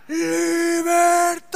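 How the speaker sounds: grito teatral larguísimo y agudo; grito de guerra. Retold or imitated. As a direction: alarga cada sílaba como arenga de batalla. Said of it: "empieza a gritar". (grito de libertad exagerado y sostenido)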